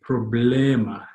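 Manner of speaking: slow "Problema" with e as in bed; drawn-out middle syllable in "Problema"; Tagalog pronunciation. Shown as a demonstration. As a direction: say "Problema" slowly, open e in the middle. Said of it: "how would that be pronounced?".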